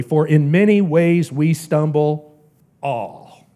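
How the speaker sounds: final all set apart after a pause; stress on all. Shown as a demonstration. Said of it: "the emphasis is on the word all".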